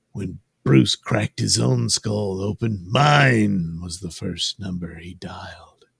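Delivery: understated, measured villain musing; lightly acted villain, slowing toward the end; lightly voiced Hush. Hush musing to Jason about Bruce, lightly voiced villain.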